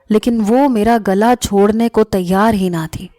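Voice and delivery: usual speaking voice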